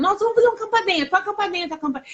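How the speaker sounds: mother hyping her sons all week, fast and excited; hyping the kids up. Retold or imitated. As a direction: sell the indoor camping with quick eager energy. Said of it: "Fiquei a semana toda falando".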